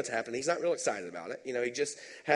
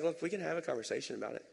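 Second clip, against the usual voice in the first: calm Jesus; 6 dB quieter, faster than usual. Retold or imitated. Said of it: "Jesus is like".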